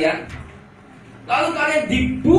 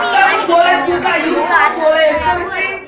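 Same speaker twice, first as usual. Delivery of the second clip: doting parent; 3 semitones higher, 6 dB louder than usual. Retold or imitated. Parent voiced to child.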